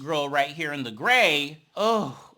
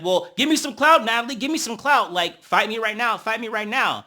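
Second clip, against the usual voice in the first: higher, louder taunting dare; mock challenge; 5 semitones higher, 5 dB louder than usual. Diamond daring Natalie to fight, higher and louder. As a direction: goad her into a fight. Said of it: "and then Diamond's like".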